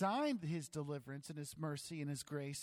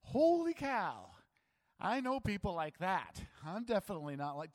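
shocked exclamation; 4 semitones higher, 6 dB louder than usual. Retold or imitated. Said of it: "To be like".

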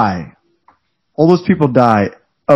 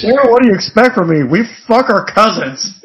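mock hick excuse; 5 semitones higher than usual. Mocking a character's excuse.

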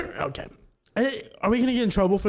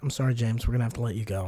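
much lower and much softer firing line; deadpan firing; 10 semitones lower, 6 dB quieter, much faster than usual. Shown as a demonstration. Repeating the layoff line to the cohost, deep and hushed. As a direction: mumble the layoff with dead eyes. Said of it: "say this with me".

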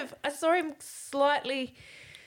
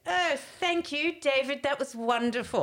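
Lady Di; 4 semitones higher than usual. Retold or imitated. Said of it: "I turned into Lady Di".

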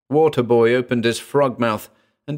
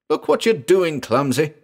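high, mildly raised narrated yell; yelled reproach; 6 semitones higher than usual. A narrator's reading. Firebug to Hammerhead after banged fingers, yelling. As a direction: yell it at a clumsy oaf, pitched up. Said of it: "he yelled".

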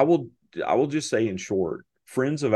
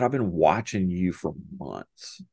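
ominous. Retold or imitated. Ominous lunch, friend's grave confession.

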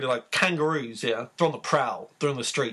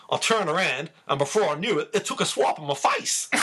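put-on Australian accent. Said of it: "I'll try and do this in an Australian accent".

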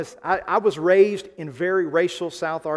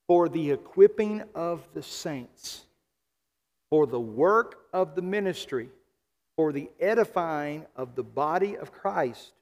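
deliberate scripture reading, phrase by phrase; slow reading. Real, not acted. Pastor answering why the gifts were given, slow deliberate reading. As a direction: read slowly with a pause after each clause. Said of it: "I want us to read it slowly".

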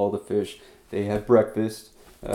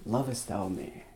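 gentle, softer and reverent; soft King James reading; 10 dB quieter than usual. Shown as a demonstration. Preacher savouring the King James wording, softly. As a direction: savour the old words, quietly. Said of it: "I love the King James Version".

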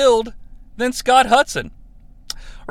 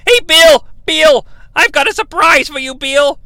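calling out; 6 semitones higher than usual. Retold or imitated. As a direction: hail him across the room with glee. Russo calls Bill over.

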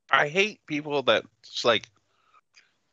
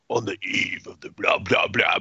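mock British accent; 4 semitones lower than usual. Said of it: "ranting in a British accent".

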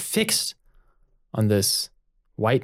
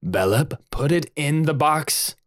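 sharp; 3 semitones higher than usual. Acted. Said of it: "the sheer sharpness of Oturo's voice".

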